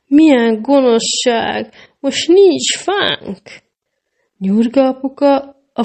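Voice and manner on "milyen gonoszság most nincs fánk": high, slow, tearful wailing. A narrator's reading. Little girl wailing that the Christmas tree is gone. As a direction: draw out each word like a crying child. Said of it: "Elza elsírta magát".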